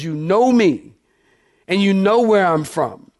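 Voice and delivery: pointed sarcasm, stretched over two beats; sarcastic. Acted. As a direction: throw it back at them with mild sarcasm. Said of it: "there's a tone of sarcasm here".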